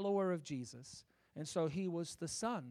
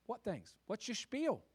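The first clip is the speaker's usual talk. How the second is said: higher, inviting and eager; gentle invitation; 6 semitones higher, 6 dB louder than usual. Acted. Jesus inviting the grieving disciples to speak, gentle. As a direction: coax the story out of them. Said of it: "And he said".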